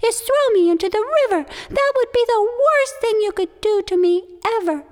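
high, loud turtle voice, feigning fear; a turtle playing his trick; high small turtle voice, mock dread; sly pleading turtle.

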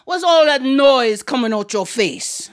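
lightly voiced stern island aunt; Aunt Queenie. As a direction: confront a fidgety child as the aunt. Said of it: "deep voice".

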